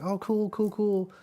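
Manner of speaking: high mock nodding; imitating the cook. Vlogger imitating the cook reacting, high mock voice. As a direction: toss off a high cool cool. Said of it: "He's like".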